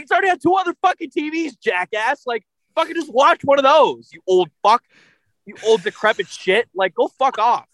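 angry rant. Retold or imitated. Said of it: "Alex's angry moment this week".

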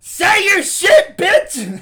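high, slow laughing yell; shout. Real, not acted. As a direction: yell it out, egging him on. Hyping friend to say it.

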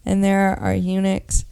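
Bible reading. Acted. Reads Matthew nineteen aloud.

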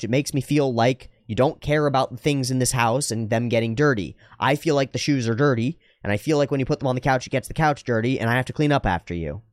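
calm, earnest airing of feelings; measured and serious; direct, sincere. Shown as a demonstration. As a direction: explain how it affects you, without blame. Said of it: "directly and seriously and sincerely".

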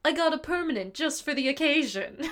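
hammed-up lion bragging; lion voice impression. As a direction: lightly mimic the lion's proud line. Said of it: "He goes".

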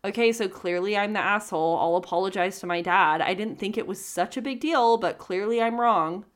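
snotty, unapologetic read. Shown as a demonstration. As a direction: read it like a snotty non-apology. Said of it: "I'm gonna say it in a snotty voice".

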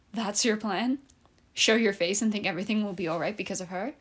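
steady storytelling read; story narration. Acted. Author reading her own story to a friend, calm narration. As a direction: read it like a novel aloud.

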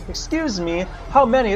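calling over shouting. Acted. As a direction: call out over a noisy crew. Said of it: "they're all shouting constantly too, as you're trying to be".

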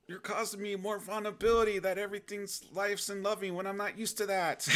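hammed-up sob over being loved; comic weepy complaint; mock crying. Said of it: "I was like".

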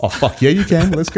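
high, hyped-up yes; excited. Real, not acted. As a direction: fire it back with glee. Enthusiastic permission to swear.

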